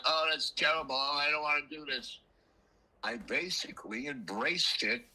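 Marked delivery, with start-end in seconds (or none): 0.1-2.2 higher-pitched imitation of a grumbler; put-on moan of protest; mock complaining. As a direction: act out a reluctant complaint. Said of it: "like, complaining, and instead of going".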